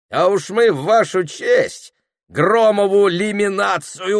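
loud, high, slow parting shouts; departing robbers shouting farewells back; gang calling farewell. Acted. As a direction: robbers yelling goodbyes as they leave. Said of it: "кричала ватага".

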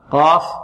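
full, emphatic q in قاف; heavy qaf. Shown as a demonstration. Teacher showing qaf is a heavy letter, thickened qaf. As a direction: say قاف thick, from the back of the mouth. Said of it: "مفخمة".

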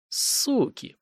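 hissed whisper from the dark. A narrator's reading. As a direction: breathe the curse out without voice. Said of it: "прошептал кто-то". (злой шёпот)

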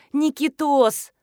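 slow, high joyful call of the name Никитос; delighted. A narrator's reading. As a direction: greet her son with joy. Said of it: "обрадовалась Белкина". (радостно, нараспев «Никитос!»)

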